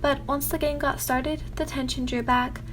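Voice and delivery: put-on story narration in an American accent. Narrator reading a story to viewers, American accent. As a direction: read it in an American accent slipping slightly Irish. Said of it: "sorry if my American accent kinda went into Irish".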